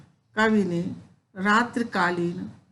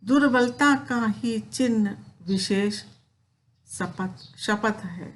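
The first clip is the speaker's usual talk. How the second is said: poem recitation. Acted. Teacher reciting Kaikeyi's plea to Ram, measured poem recitation. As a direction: recite the verse with feeling, slightly raised.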